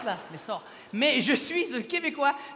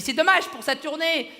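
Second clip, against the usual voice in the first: imitated lady; 4 semitones higher, slower than usual. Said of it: "Elle m'a dit".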